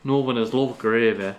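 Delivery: put-on echoed line in a northern English accent. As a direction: copy the northern English vowels lightly. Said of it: "Do your northern accent".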